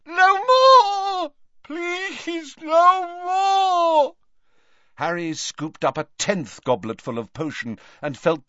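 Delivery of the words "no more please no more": high, loud, crying shouts; yelling. Acted. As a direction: cry out in agony. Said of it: "he yelled again".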